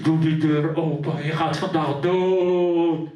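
deep, loud, slow threat through the door; furious mother. Retold or imitated. Mother at the toilet door threatening her son, low and loud. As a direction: growl it low and menacing.

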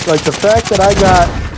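hiccups breaking the words; hiccuping. Real, not acted. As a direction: talk through a hiccup. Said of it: "I'm hiccup-, hiccuping and, and burping".

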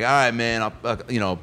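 hesitant, fumbling sign-off, imitated; bow out awkwardly, tailing off; acted awkward leave-taking; awkward goodbye. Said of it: "got up to leave very awkwardly".

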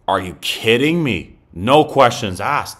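loud, delighted disbelief; crowing over a bargain signing; real glee at a contract that cheap; excited. Real, not acted.

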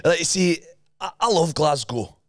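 demonstrated Scottish accent. Shown as a demonstration. Host sets next line, Scottish accent. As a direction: model a Scottish accent for copying. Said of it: "but in the accent".

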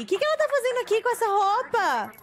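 high, fast indignant question; indignant surprise. Real, not acted. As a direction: demand to know what's going on. Character wandered off wrongly.

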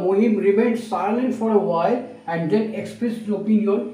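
slow, even reading of the whole sentence; slow model sentence. Shown as a demonstration. Teacher reading the full answer, slow and clear. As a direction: read it slowly as the model. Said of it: "এটা আমরা এরকমভাবে বলতে পারি".

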